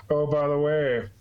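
slow, sly villain line; lightly voiced scheming villain; mustache twirling villain. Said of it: "you could see him twirling his mustache".

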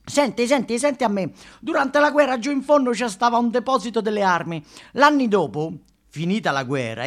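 high, loud, broad storyteller voice; elder's cautionary tale, pitched high and pressing; old local telling a tale. Retold or imitated. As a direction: lean in and warn like a neighbourhood elder. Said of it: "I più anziani ci raccontano".

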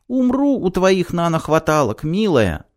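high melodramatic declaration; mildly theatrical lover's voice; lovelorn vow. A narrator's reading. Hero's melodramatic vow of love.

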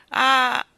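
high wailed "ah"; queen's sorrowful moan; lamenting sigh. A narrator's reading. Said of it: "ella si lamentava con voce debole".

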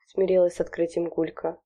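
plain reading voice

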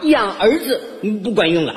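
lightly hammed-up old mother-in-law; praising mother-in-law. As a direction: lament that sons are no use. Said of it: "一边夸我". (岳母感叹养儿无用)

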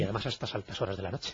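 distorted, hollow phone-line voice; voice from beyond the grave. Real, not acted. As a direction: sounds like a voice from a crypt. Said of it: "una voz de ultratumba".

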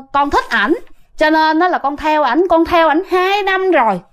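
a hint of a possessing female spirit. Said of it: "chuyển qua giọng nữ".

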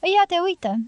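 exclamație mai tare, ridicată; strigă mirată, cu glas plin; vocea puternică. A narrator's reading. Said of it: "cu vocea ei puternică". (femeia lui Pablo, cu glas puternic și tare)

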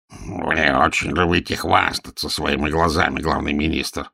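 a touch of irritation under the breath; irritated rumble. Acted. Toad-man rebukes the chief minister, mildly irritated. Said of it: "раздражённо пророкотал".

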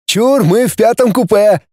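high-pitched eager claim; mild yell. A narrator's reading. Benny claims the fifth compartment, mild excited yell. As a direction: cry out in a high voice without real volume. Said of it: "завопил Бенни".

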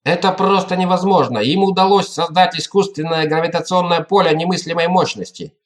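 breaking into a shout. Acted. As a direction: voice cracking toward a yell. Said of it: "срываясь на крик".

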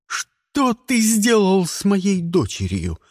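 mild mock yell at the stranger; yelling father. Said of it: "заорал яйцерик".

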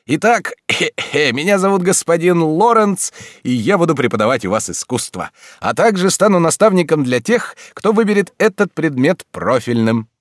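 high, blissful odd teacher; eccentric teacher voice. A narrator's reading. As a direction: play a dreamy oddball professor. Lorenz voiced by narrator.

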